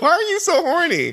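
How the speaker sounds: very high, squealed, upset exclamation. Retelling what Tyra Banks says to a judge: upset Tyra Banks impression. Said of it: "made her sound more upset".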